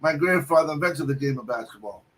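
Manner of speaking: put-on a proud old-timer revealing who he is; old man voice. Naismith telling the cook about his grandfather, mock old-man voice. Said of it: "He goes".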